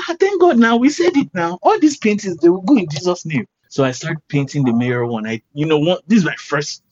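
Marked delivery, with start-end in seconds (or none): 0.1-3.4 much higher, louder, jubilant mother praising God; overjoyed mom. Retold or imitated. Mom rejoices over the news on the phone. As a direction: burst out thanking God like a delighted mum. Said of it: "my mom was like".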